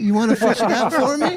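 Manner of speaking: high, pinched creep voice; sleazy lure to a child; creepy pinched voice. Pretend. Creepy dub of carver.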